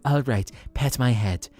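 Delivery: a cat that suddenly has had enough; mild mock bossy cat. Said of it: "the cat is like".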